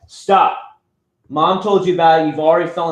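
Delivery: firm parent command; sharp scold. Real, not acted. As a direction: cut him off mid-jump. Scolding his jumping child.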